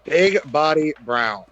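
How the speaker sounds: "Big Body Brown" slowly, word by word; slow, clear repeat. Real, not acted. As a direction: space out "Big Body Brown" for a listener who missed it. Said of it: "what did you say his name was".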